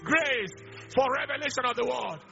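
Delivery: drawn-out, emphatic calls of prayer points; fervent preacher's invocation; prayer declaration. Real, not acted. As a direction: proclaim each word over a praying congregation.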